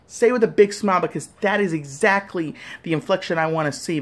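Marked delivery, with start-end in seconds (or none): 0.1-1.0 raised urging. Real, not acted. Urging viewers to own it.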